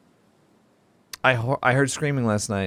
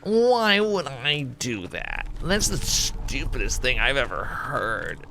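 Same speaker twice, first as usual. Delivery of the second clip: slow, condescending mock whine; snotty retort; slower than usual. Self-mocking how he might have sounded, slow and condescending. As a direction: sneer it out like a brat. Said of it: "maybe I did say it like a little bitch".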